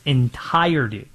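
"entirety" set apart, pitched low; stress on ENTIRETY. Real, not acted. Host stressing the full schedule release, emphatic low "entirety". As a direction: land firmly on a low "entirety". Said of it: "Emphasis on the word".

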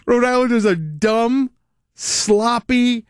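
high, slow squeaky mimicry of the altered caller; laughing echo of the chipmunk clip; mock chipmunk voice. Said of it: "I changed his voice with the computer".

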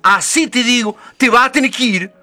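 angry. Acted. Angry Madre Nieve throwing out the lazy girl, high and loud. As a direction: tell the lazy girl off and send her away.

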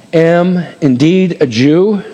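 "am indeed a Jew" drawn out slowly, word by word, rising on "Jew"; slow reading. Shown as a demonstration. Pastor reading Paul's speech aloud to the congregation, slowly. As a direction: read Paul's words slowly and deliberately. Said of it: "This is speech".

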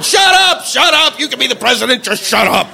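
shouted shut up, then fading; mock yell at the TV. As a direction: yell at the screen, then run out of steam. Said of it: "It's going".

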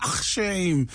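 emphatic shame after the ach; stress on shame. Retold or imitated. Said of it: "puts such emphasis on the shame".

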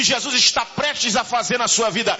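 loud preaching push; rising, shouted proclamation; full preaching. Acted. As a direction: shout it out to the church. Preacher releasing a word.

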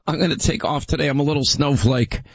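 mock-pitiful sick-day whine; whiny snowflake. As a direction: play the fragile complainer. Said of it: "I can take the easy option".

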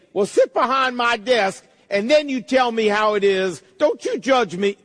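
lightly acted defensive employee, pitch jumping up; mock indignant retort. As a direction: push back at the boss in mock protest. Indignant employee answering boss's review.

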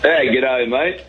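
broad put-on Aussie greeting; Australian accent. Comedian greeting the show hosts in a mock Australian accent. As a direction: say g'day mate like a cartoon Aussie.

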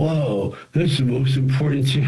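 imitating awed producers; mock surprise. Producers leaving the screening room, mock amazed. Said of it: "the producers come out ... and go".

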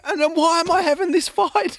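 very high, giggling self-mockery; laughing. Real, not acted. Host asking himself why he's fighting, laughing. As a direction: crack up at your own silliness.

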